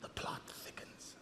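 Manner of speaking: breathy stage whisper; hushed aside, the plot thickens. Real, not acted. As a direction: lean in and whisper it.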